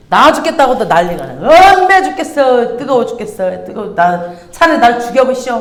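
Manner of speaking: a touch of a whiny Jonah moaning about the heat; whiny complaining. Retold or imitated. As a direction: complain like a sulky man in the heat. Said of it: "난리를 치는 거야". (더위에 투덜대는 요나 흉내)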